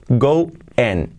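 "going" with an e-sound and a faded G; final G nearly silent. Shown as a demonstration. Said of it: "la G del final casi no se pronuncia".

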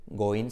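"going" said "go-in", with a clear i; careful two-part "go-in" for "going"; full -ing ending. Shown as a demonstration. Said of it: "se convierte en going".

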